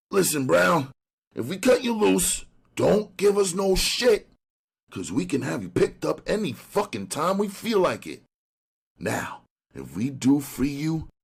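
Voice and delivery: hard, threatening detective; tough cop voice. Acted. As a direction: lean on him like a cop. Ryan threatens the informer.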